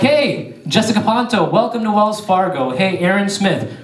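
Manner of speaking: upbeat bank-greeter voice; cheery teller greeting. Retold or imitated. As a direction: greet each customer like a star employee. Acts out cheery teller greeting customers.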